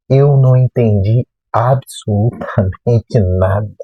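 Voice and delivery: "absolutamente nada" stretched out slowly, each part weighed; emphatic ABSOLUTAMENTE NADA. Real, not acted. Student insisting he understood nothing in class, slow emphasis on "absolutamente nada". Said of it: "Quando eu falo nada".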